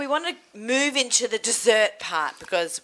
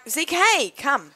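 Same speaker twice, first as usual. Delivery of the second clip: calling out; 6 semitones higher, slower than usual. Real, not acted. Calling the dog over.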